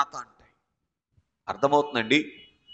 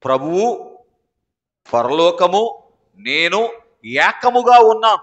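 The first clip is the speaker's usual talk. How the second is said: joyful declaration; 5 dB louder, slower than usual. Shown as a demonstration. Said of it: "ఆ ఉల్లాసముతో".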